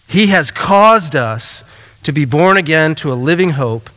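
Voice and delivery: measured, solemn scripture reading. Acted. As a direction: read the passage with reverence. Reads scripture aloud.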